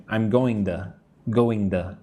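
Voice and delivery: "going to" run together as "going-tuh"; linked going to. Shown as a demonstration. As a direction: model "going to" with a weak final "to". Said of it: "practice saying going to".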